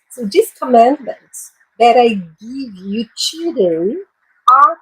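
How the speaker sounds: slow, careful English Bible reading for learners; teacher reading a Bible verse aloud to her class, slowly; slow scripture reading. Shown as a demonstration. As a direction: read each phrase slowly so students follow. Reads the verse once more.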